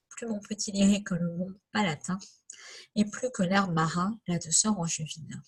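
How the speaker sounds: lightly measured classroom poem reading; poem recitation. Acted. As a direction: recite the verses line by line with small pauses.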